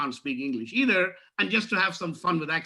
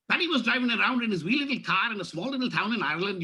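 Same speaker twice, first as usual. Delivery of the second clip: fast Irish telling; 3 semitones higher than usual. Shown as a demonstration. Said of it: "I deliberately did it a little faster".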